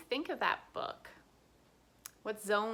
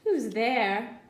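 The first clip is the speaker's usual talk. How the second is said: mouse cry; 5 dB louder than usual. Acted. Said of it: "Mouse cries".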